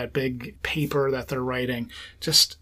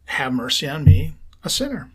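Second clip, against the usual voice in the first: slow breath prayer. Shown as a demonstration. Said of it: "breathe out, exhale".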